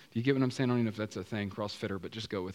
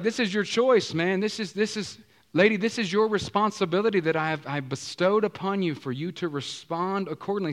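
God speaking; 5 semitones higher, 4 dB louder than usual. Pretend. God voiced in sermon.

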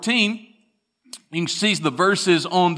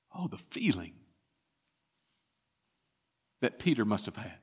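very soft, low, aching; hushed sorrow; 6 semitones lower, 12 dB quieter, faster than usual. Real, not acted. Preacher picturing Peter's shame, hushed and low. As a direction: let it fall almost to nothing.

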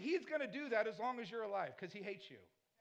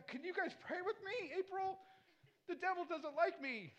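mock pleading; 5 semitones higher than usual. Pastor begging for prayer.

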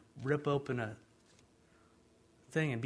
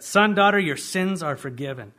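proclaiming forgiveness; 3 semitones higher, 10 dB louder than usual. Acted. Preacher voicing Jesus to the congregation, loud and proclaiming. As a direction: call it out like good news.

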